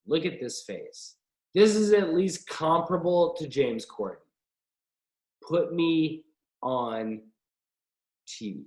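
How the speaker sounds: slightly desperate, deliberate sales pitch; a little desperate. Pretend. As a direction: plead for the job in drawn-out words. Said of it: "That sounded a little desperate".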